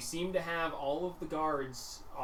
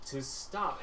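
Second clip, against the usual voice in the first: slow menacing boss; 4 dB quieter, much slower than usual. Acted. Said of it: "and he goes".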